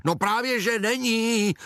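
a high, put-on blurt; aunt cuts in to contradict the mother; aunt hoots. A narrator's reading. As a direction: hoot it out like the bossy aunt. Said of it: "houkla teta".

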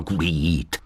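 plain reading voice

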